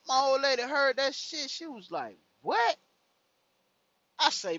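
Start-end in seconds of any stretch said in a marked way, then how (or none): 2.4-2.8 high, loud, sharp yelp; mock shriek rising sharply; shocked girlfriend. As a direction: imitate an outraged girlfriend's startled question. Old lady's retold reaction.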